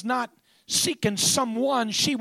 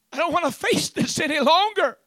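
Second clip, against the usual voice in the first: raised pitch, anguished plea; despairing; 6 semitones higher, 4 dB louder than usual. Acted. Mary turning away from the facts, despairing. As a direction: cry it out in despair. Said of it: "despair, grief".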